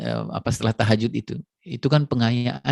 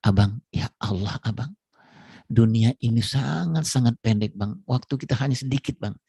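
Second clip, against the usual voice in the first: eager wife. Retold or imitated. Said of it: "istrinya yang semangat empat lima bilang sama suaminya".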